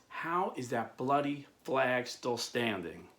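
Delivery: slow, simmering retold disbelief; mad, restrained. Mad captain asking the sailor, restrained anger. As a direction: spell it out slowly, anger held in. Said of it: "the captain was so mad".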